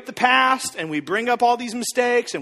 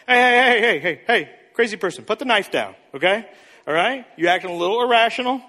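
hostage negotiator. Retold or imitated. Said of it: "It's like a hostage negotiation".

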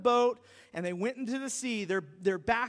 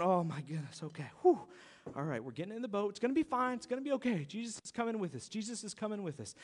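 low, softer anxious murmur; nervous self-reassurance; 3 semitones lower, 6 dB quieter, faster than usual. Retold or imitated. Disciples in the boat calming themselves, mock nervous. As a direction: talk yourself into it, mildly scared.

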